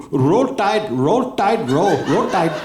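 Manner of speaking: chanting Roll Tide in a thick Southern drawl; Southern accent. Retold or imitated. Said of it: "Love that accent".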